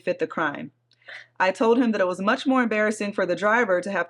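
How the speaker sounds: measured read-aloud of a post; story narration. A narrator's reading. Host reading a Reddit thread to her co-host, story narration. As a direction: read it out evenly, like a written account.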